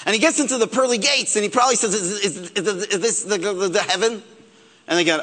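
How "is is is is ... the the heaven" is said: stuttering. Retold or imitated. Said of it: "Moses had a stutter".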